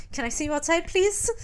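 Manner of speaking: high, lightly acted plea; mock-polite little request. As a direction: lift the pitch on a pointed please. Voicing Prudence's polite request.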